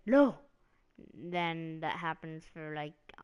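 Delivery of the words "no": loud high barked refusal; mock refusal. Triple H refusing Batista, shouted no. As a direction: slam the door on him with one shouted word. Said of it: "And he's like".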